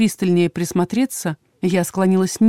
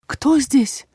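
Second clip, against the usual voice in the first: alarmed question; 6 semitones higher than usual. A narrator's reading. Startled heroine calls into darkness.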